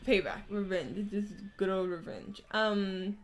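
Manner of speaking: talking while chewing chicken; words around a bite of food; eating crunchy fried chicken. Real, not acted. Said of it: "I'm eating chicken tenders right now".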